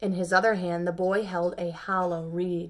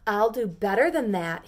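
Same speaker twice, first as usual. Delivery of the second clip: declaring; 6 dB louder than usual. Acted. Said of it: "he declared".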